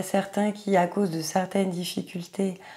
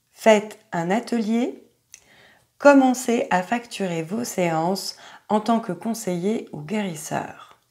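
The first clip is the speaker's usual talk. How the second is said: slightly louder, deliberate card reading; reading aloud; 3 semitones higher, 4 dB louder than usual. Acted. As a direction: read out each card meaning as a separate announcement. Reads the card's meanings aloud. (lecture à voix haute des significations de la carte)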